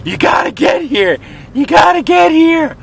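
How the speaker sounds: high urgent mock shout; yelling you gotta get here in a high voice; A J calling excited. A J on the phone urging him, high mock shout. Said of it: "and going like".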